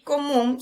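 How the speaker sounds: "común" with the weight on MÚN; "común", last syllable stressed and held. Shown as a demonstration. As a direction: lean on the final syllable of "común". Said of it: "sílaba tónica".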